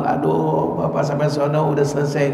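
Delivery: a lightly voiced sulky grumble; mock grumbling. A late worshipper grumbles that prayer ended, mild mock grumbling. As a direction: grumble half to yourself. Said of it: "kita ngedumel".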